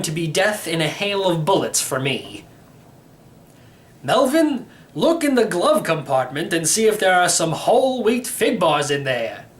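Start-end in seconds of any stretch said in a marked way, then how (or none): 4.0-9.5 put-on high, cheerful old man calling out; breezy old uncle, unbothered by crime. Uncle asks nephew for fig bars, high and cheerful. Borgel calls to Melvin.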